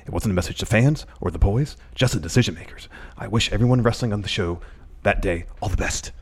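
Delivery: lightly voiced wrestler impression; measured mock reading, softening to the end; Kenny Omega. Host reading the second tweet, lightly in character. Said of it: "You do the, the best Kenny Omega".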